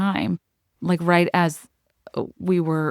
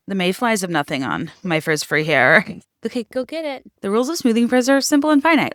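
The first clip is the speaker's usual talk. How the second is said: ad read. Acted. Reads sponsor ad.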